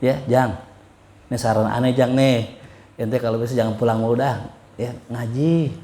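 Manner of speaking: gentle teacher's advice as it was meant. Retold or imitated. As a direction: coax him gently to study. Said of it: "Aneh bilanginnya lembut".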